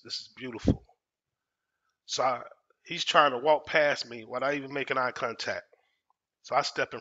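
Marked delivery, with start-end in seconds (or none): 0.0-0.8 breathy whisper, savoring it; gleeful whispered aside; whispered gloat. Retold or imitated. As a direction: hush it like a secret win. Quiet gloating thought in empty room.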